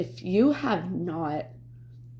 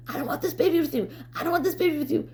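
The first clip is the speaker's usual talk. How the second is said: retold plea, pitched way up; high-pitched insistent refusal; 10 semitones higher, much faster than usual. Woman retelling what she kept saying to her ex, high and insistent. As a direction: repeat it like a mantra in a high, strained voice.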